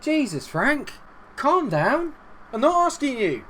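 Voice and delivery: high-pitched, indignant comeback; exasperated retort. Pretend. Player arguing back at Frank on the touchline, exasperated.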